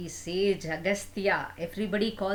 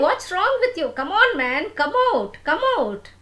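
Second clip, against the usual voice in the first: loud, much higher, insistent yelling; urgent calling; 12 semitones higher, 8 dB louder than usual. Acted. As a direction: yell for him again and again, getting worried. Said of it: "So Ilvala kept on saying".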